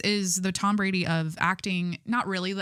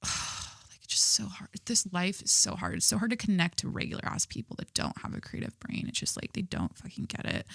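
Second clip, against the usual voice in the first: mock tortured artist; 6 dB quieter than usual. Dramatic artist lament, unvoiced.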